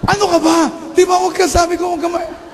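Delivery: put-on high, sharp scold of the child; scolding mother. (pagalit na saway ng nanay)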